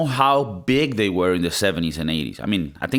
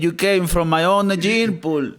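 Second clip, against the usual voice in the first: high, slow theatrical scorn; scornful father; 9 semitones higher than usual. Acted. Father berating his son's art, high slow mock scorn. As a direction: draw out the insult, hammed-up and pitched high.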